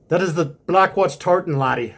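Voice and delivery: hint of an Irish brogue on laddie; mock Irish accent. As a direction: play at sounding Irish, Scottish in spirit. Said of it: "that probably sounds Irish".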